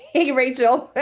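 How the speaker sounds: laughing greeting. Real, not acted.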